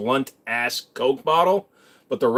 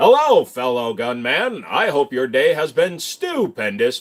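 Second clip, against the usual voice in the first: put-on robot voice. Greeting fellow gun owners, then redoing the greeting in a robot voice. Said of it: "I gotta say that more like a robot".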